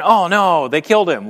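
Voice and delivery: feigned shock at a plan gone wrong; mock dismay. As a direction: play a mildly panicked "oh no". God imagined caught off guard.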